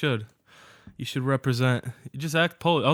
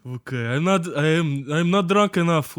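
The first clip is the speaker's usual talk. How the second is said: put-on Russian accent. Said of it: "Where this just Russian accent".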